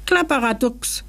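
high-starting grumpy creature curse; growled. A narrator's reading. Little man annoyed at tedious humans, growled. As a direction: snarl the nonsense word. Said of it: "knurrte das Männchen".

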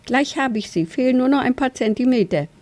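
high, mildly strained eagerness; lightly acted panting effort; gasping. A narrator's reading. Young badger reaches for his cap, mildly gasping. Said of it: "japste er".

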